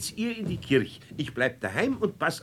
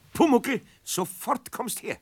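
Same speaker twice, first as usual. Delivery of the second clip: higher, commanding call; stern summons; 8 semitones higher than usual. Acted. Eder summons the goblin to scold him, sternly. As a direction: order him over right now.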